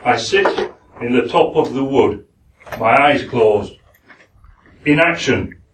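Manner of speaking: a light Yorkshire accent for a poem reading. Shown as a demonstration. Reading Hawk Roosting to the forum in a light Yorkshire accent. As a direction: read it as a plain Yorkshireman, unhurried. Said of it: "I'm going to do it in my Yorkshire accent".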